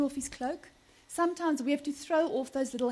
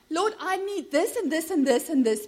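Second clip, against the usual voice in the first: higher mock prayer, reeling off requests; demanding prayer; 4 semitones higher, 4 dB louder than usual. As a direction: rattle off a wish list to God. Mimics a list-like request prayer.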